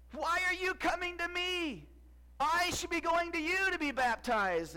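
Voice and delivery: high, slow, amazed question; awed John the Baptist. Retold or imitated. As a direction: plead humbly, unsure why.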